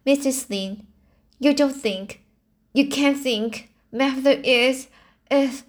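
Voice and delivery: faltering dread. A narrator's reading. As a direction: break off before the dreadful word. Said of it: "Anne could not say the dreadful word".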